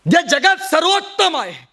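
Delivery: high, slow, ringing shout to the crowd; rousing shout. Real, not acted. Speaker firing up the students about their goal, slow rising shout. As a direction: build it up and call it out.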